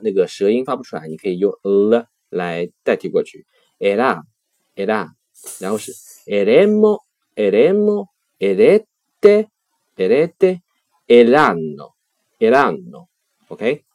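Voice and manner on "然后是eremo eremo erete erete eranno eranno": eremo, erete sung out much higher, eranno falling; teacher reciting eremo erete eranno with bright rising emphasis; animated classroom recitation; conjugation drill. Shown as a demonstration. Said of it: "它的规则变化如下".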